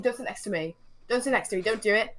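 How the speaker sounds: mock inner plea, rising as it repeats; pleading warning. Silently willing the man not to sit, mock pleading. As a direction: beg him off, building in pitch.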